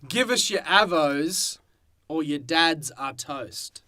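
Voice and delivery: movie trailer voice. Shown as a demonstration. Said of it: "what's that tagline?".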